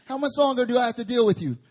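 fast, loud, laughing rebuke; Jesus laughing at his disciples; laughing exasperation. Retold or imitated. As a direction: laugh while scolding. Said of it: "That's exactly what he says".

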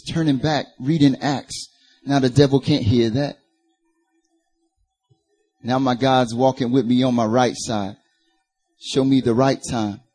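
rhythmic rhymed performance poetry; spoken word. Real, not acted. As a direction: deliver it in measured bars, landing on each rhyme. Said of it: "like, spoken word or something".

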